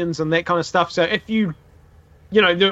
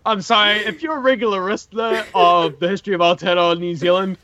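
tipsy, loose slurred speech. Real, not acted. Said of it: "I'm so fucking drunk right now".

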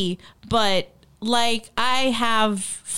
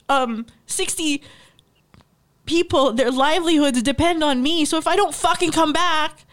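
higher, heated retold rant; fuming at the consul, voice pitched up; retold angry rant; 5 semitones higher than usual. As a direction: vent the outrage at the consul, raised pitch. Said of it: "I was so angry".

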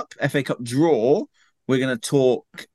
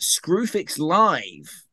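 light commentator twang, drawn out; a hint of match-commentary delivery; Martin Tyler; 3 semitones higher, much slower than usual. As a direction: lightly imitate a football commentator's announcement. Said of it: "with a slight Martin Tyler twang to it".

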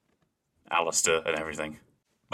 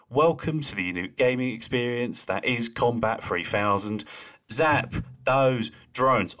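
bored, droning receptionist voice; flat, utterly bored delivery; monotone voice; 5 semitones higher than usual. Retold or imitated. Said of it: "most monotone voice ever".

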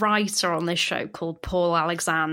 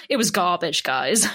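deadpan put-down. Retold or imitated. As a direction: deliver it without blinking, bored and blunt. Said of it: "Like, not even blinking".

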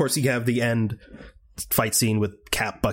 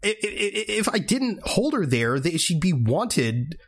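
higher mocking voice, stammering; mock Steve; 8 semitones higher than usual. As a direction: play the flustered hero, pitched up. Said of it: "he's like".

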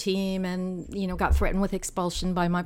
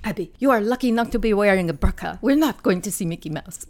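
lightly imitated Somali accent, louder; 5 dB louder than usual. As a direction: quote a friend with a hint of a Somali accent. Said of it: "in her Somali accent".

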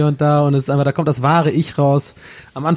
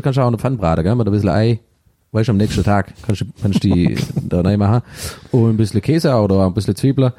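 Swabian dialect. Acted. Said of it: "das tue ich mal gern in der Landessprache".

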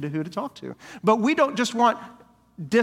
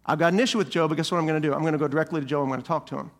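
calm, settled, lower voice; loving resolve; 2 semitones lower, faster than usual. Pretend. Pastor voicing a loving member with an issue with Joe, calm and sincere. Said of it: "Love says".

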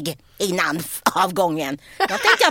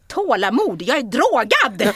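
incredulous comeback; 4 dB louder, slower than usual. Retold or imitated. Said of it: "Jag tänkte säga".

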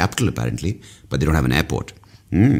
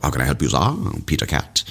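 posh waiter. Pretend. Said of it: "very British, very Calcutta, very Peter Cat".

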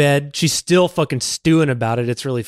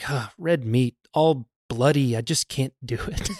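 squeamish refusal; 2 semitones lower, 5 dB quieter than usual. Retold or imitated. Guest declining his untouched steak, mildly squeamish. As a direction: quietly put off by the food.

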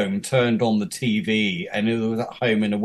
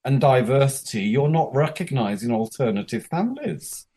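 mildly indignant, high-pitched opening; retold indignant complaint; 3 semitones higher than usual. Job candidate challenging university over dog, mild indignation. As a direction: lodge a mock-lofty protest.

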